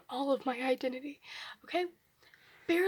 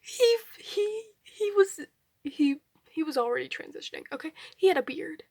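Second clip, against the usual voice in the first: exasperated; 7 dB louder than usual. Real, not acted. Telling viewers about grandmother's misgendering, loudly exasperated. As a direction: burst out in exasperation, tripping over the start.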